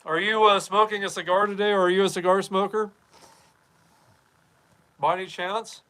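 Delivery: ordinary talk, nothing marked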